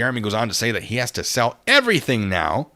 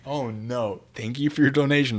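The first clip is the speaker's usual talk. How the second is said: ordinary talk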